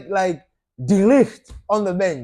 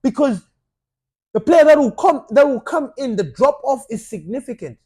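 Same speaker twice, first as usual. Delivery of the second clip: mock panicked fan; 6 semitones higher, 5 dB louder than usual. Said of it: "we're like".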